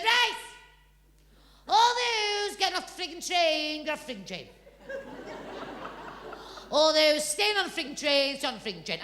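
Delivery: put-on a boy calling out like a conductor, rising then dropping; child bossing toy passengers off the train, lightly voiced; mock train conductor.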